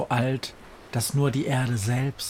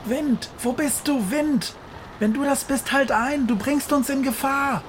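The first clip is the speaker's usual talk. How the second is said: shouting into storm. A narrator's reading. Witch Befana shouts into the storm at the wind. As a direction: cry out into the howling wind. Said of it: "schreit Befana".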